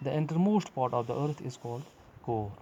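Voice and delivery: slow, drawn-out reading of the English textbook line. Acted. Teacher reading the textbook to young pupils, slow and deliberate. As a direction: read it out word by word for the class.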